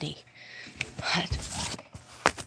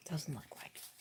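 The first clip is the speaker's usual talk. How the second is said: much softer, whispered repeat; whispered echo; 13 dB quieter than usual. Real, not acted. Streamer repeats it to herself, barely whispered. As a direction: say it again under your breath. Repeats it under her breath.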